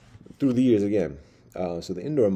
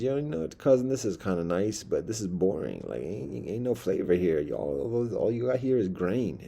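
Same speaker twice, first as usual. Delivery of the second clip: lightly voiced complaining town mouse; animated, pitch swinging up and down; 2 semitones higher than usual. Town mouse griping to his country cousin, lightly voiced complaint.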